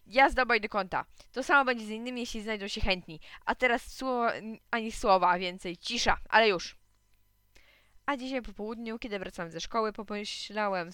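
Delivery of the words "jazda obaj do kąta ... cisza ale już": stern scolding. Acted. Supervisor scolds fighting boys.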